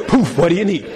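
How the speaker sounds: bigger, laughing genie take. Retold or imitated. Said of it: "jump out and go".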